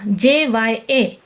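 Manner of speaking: जे वाई ए spelled out slowly, letter by letter; slow spelling. Shown as a demonstration. Teacher spells the sound for students, slowly. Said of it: "इसका उच्चारण ज्य जैसा होगा".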